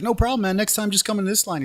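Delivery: high-pitched easygoing reassurance; super nice officer. Retold or imitated. Officer reassures a non-American at immigration, super nice and high-pitched. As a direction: imitate an officer happily waving it off. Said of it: "he was, like, super nice".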